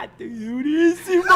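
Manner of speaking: high, loud cracked cry; hammed-up outburst; mock wild shout. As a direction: yell it as a ranting old man. Old teacher's wild outburst.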